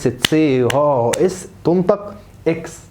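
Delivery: deliberately slow spelled-out rule; slow teacher rule. Shown as a demonstration. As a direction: spell the rule slowly for the class.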